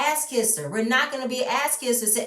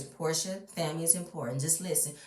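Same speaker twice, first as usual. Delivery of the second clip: mock producers; 4 semitones lower, 7 dB quieter than usual. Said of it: "Excuse me, the producers".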